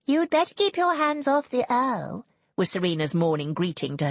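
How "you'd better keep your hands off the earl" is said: high-pitched sisterly threat; hostile warning. A narrator's reading. Serena's morning greeting to her sister, high hostile warning. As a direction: warn a rival off, voice raised in pitch. Sister warns rival at breakfast.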